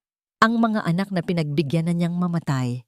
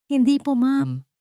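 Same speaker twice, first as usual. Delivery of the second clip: higher, crying denial; tearful plea; 9 semitones higher than usual. A narrator's reading. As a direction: plead through tears.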